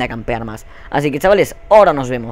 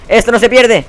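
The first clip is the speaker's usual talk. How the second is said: loud high yell of defiance; shouting at the game; 9 semitones higher, 7 dB louder than usual. Real, not acted. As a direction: yell it to rally yourself. Self-encouragement in a losing match. (grito desafiante y agudo)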